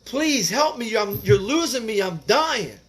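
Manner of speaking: begging. Retold or imitated. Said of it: "I was begging this doctor".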